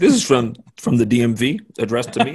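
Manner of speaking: loud, high, proud robber voice; hammed-up proud robber; mock proud robber. Acting out robber's line.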